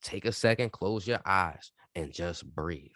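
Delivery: softening into a calm guide; calm guiding. Shown as a demonstration. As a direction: ease them down gently. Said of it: "Preach, my brother".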